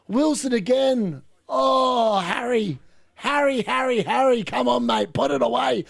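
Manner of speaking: will him to finish it; excited urging. Real, not acted. Fan begging Harry Wilson to put it away, excited.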